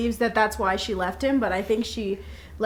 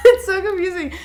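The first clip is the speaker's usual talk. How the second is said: higher and louder exasperation; amused frustration; exasperated; 8 semitones higher, 7 dB louder than usual. Real, not acted. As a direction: throw up your hands, higher. Laughing at confusing kidney chain.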